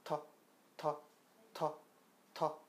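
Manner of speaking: 터 with a firm tongue release; 터 punched with the tongue snapping off the ridge; 터 repeated with full force; strong Korean t. Shown as a demonstration. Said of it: "그냥 티귿 발음을 내보세요".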